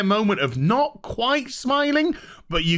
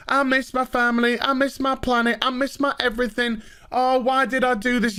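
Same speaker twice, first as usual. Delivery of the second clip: whiny homesick crewman; 5 semitones higher than usual. Retold or imitated. Whiny character voice mocking.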